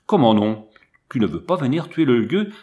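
loud, outraged comment non; indignant outburst. Acted. Pitou to the Arab who refused, loud and outraged. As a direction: shoot back a loud, shocked question.

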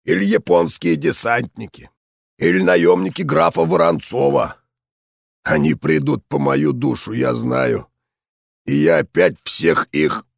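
gruff, raspy veteran voice; hoarse old soldier ranting on; raspy old general. Acted.

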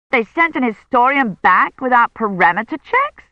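high, shocked question; scandalised rise. Acted. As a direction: react in disbelief at the risk. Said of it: "Andrews sounded shocked".

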